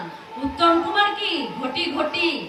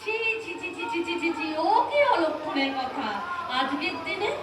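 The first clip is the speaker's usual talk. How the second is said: soft, quick shocked tutting; hushed tut-tutting; 2 semitones higher, 6 dB quieter than usual. Acted. Bride hushing her husband's ominous joke. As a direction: hush him like a bad omen.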